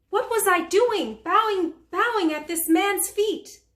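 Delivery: aghast at your own surrender; appalled disbelief. Acted. Mary Magdalene recounts bowing at a man's feet, appalled.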